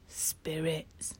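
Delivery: frightened hushed whisper; nervous whisper. Acted. Boy on the steps fears spirits, scared whisper. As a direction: breathe it out, scared of being heard. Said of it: "one said nervously".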